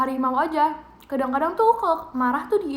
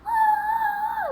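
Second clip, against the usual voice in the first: put-on high shriek copying a scared teen gamer; imitated scream. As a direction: mimic her brother screaming at a jump scare. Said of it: "kalau mereka takut kayak".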